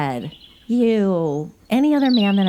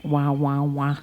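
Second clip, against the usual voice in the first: whiny wah wah; 4 semitones lower, slower than usual. Shown as a demonstration. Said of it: "That's how I feel".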